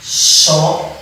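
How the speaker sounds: Chocolate in four separate beats, cho, co, la, te; Chocolate split for a beginner; syllable by syllable. Shown as a demonstration. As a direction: count out the syllables of Chocolate with pauses. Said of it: "quatro sílabas".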